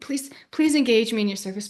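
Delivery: unvoiced hushed plea; whispered prayer. Real, not acted.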